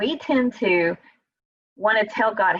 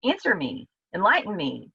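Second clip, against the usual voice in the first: blunt plea. Retold or imitated. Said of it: "notice how he's talking to God".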